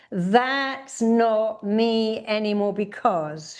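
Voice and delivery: slow, emphatic declaration; firm demo of a defiant statement; shouted affirmation. Shown as a demonstration. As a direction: declare it slowly, leaning on not. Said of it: "shout out that".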